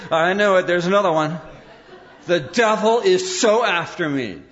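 laughing mock paranoid whisper-free rant. Preacher mimics a paranoid churchgoer, laughing. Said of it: "it's like, paranoid days".

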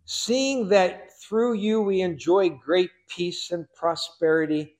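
a touch of pompous courtroom flattery; put-on orator's voice. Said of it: "say this with a kind of a, a voice".

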